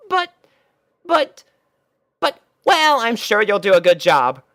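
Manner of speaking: high, flustered buts rising; a cornered pony giving in; stammering. Acted. Twilight stammers at Rainbow, flustered.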